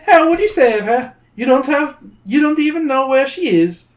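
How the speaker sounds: sly troll. Acted. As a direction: tempt them like a greedy little troll.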